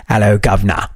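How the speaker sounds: lightly imitated Cockney accent; mock Cockney. Host imitating how English people supposedly greet, light Cockney. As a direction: toss off a stock Cockney greeting, dropping the H. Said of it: "a bunch of Cockneys that go".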